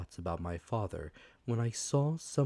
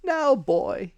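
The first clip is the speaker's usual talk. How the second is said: high, louder, commanding; high cruel command; menacing blind man; 10 dB louder than usual. Acted. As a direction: order the boy coldly. Blind man grips Jim.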